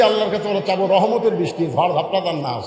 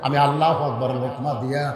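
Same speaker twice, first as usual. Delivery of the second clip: melodic preaching; 2 semitones lower than usual. Acted. Preacher tells of the shepherd seeking Omar, melodic preaching. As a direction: draw out line endings in a chant.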